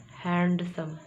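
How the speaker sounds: हैंडसम with the D fully sounded; common mispronunciation. Shown as a demonstration. Teacher asks what we usually say, demonstrating the error. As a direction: pull हैंडसम apart after a voiced D. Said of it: "आप इसे हैंडसम नहीं बोले".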